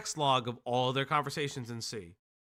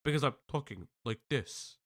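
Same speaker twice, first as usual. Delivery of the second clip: halting delivery; 5 dB quieter than usual. Shown as a demonstration. Co-host noticing their own odd way of talking, halting. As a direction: break it up, let it sink away. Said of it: "I'm starting to sound like Miss Anthropony".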